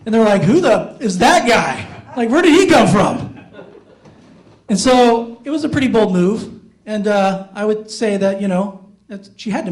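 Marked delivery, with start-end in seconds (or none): 0.4-3.4 imitating incredulous relatives, rising higher at the end; mock bewildered outburst; baffled indignation. Family at a funeral spotting a stranger, baffled indignation.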